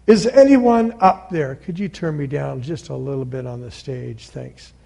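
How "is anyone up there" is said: higher-pitched call upward; a mild, acted call for anyone above; calling for help. Jack calling up the cliff for a rescuer, mildly raised call. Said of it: "So Jack began yelling for help".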